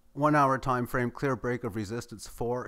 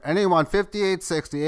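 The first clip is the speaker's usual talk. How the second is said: auctioneer calling for bids; higher, louder auction call; 5 semitones higher, 4 dB louder than usual. Pretend. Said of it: "I'm gonna feel like an auctioneer".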